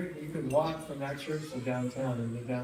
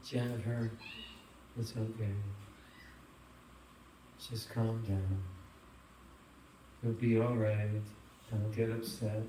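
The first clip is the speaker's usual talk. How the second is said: calm mother; 4 semitones lower, 5 dB quieter than usual. Retold or imitated. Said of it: "And she's so calm".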